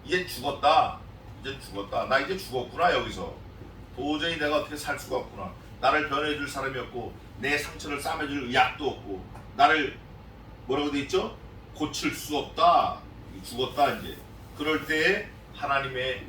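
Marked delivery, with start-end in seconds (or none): 0.0-10.0 low, soft despairing moan; utter despair. Acted. Preacher voicing a sinner in despair, low and soft. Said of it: "아주 극심한 절망이에요". 11.7-14.2 low, soft despairing moan; utter despair. Acted. Preacher voicing a sinner in despair, low and soft. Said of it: "아주 극심한 절망이에요".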